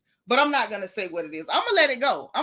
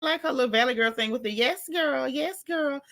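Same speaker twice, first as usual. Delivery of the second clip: put-on valley girl; 3 semitones higher than usual. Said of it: "called her a Valley Girl".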